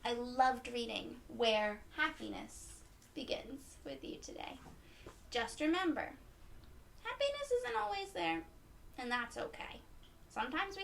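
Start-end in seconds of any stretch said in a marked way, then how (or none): 3.2-4.6 whisper. Real, not acted. Ending the read-aloud.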